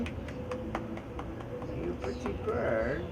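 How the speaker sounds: whispered coo. Acted. Cooing at bird in bath.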